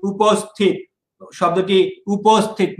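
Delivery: উপস্থিত said "uposthit", with a rounded o after p; closed middle vowel. Shown as a demonstration. Teacher explaining option C, উপস্থিত said with "po" in the middle. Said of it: "অটা ও হয়ে গেছে".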